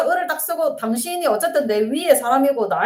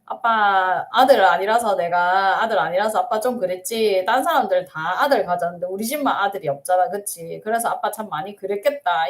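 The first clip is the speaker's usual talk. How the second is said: tender; 6 semitones lower than usual. Pretend. Daughter speaking gently to her father in her mind. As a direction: soothe a hurt father.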